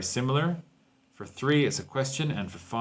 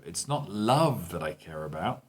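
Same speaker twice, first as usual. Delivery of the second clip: rising pitch on "love", the focus word; stress on love; 3 semitones lower than usual. Shown as a demonstration. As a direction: make "love" stand out with a rise. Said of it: "that's where your intonation comes up".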